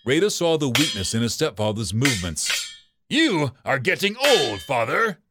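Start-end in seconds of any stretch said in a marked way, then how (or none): 3.1-4.6 sneering taunt. Acted. 4.6-5.2 father sneered with a rising taunt; sneering. Acted.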